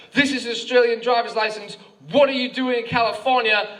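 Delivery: mildly hammed-up yell of an officer; mock yelling policeman. Policeman challenging the tourist over his license, mock yelling. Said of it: "he starts yelling at me again".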